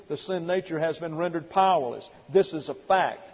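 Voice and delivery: loud, deliberate sermon delivery; emphatic preaching. Real, not acted. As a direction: drive the teaching home forcefully, phrase by phrase.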